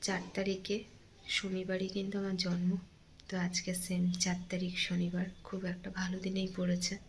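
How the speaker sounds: hushed grief for an absent mother; hurting, subdued. Real, not acted. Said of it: "আর সেই কারণে প্রচণ্ড কষ্ট হচ্ছে". (চাপা গলায়, কষ্ট নিয়ে আস্তে বলা)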